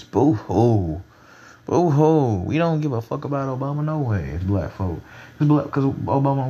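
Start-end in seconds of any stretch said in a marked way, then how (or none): 0.0-2.4 fake crying. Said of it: "white people out there in their stands crying like a".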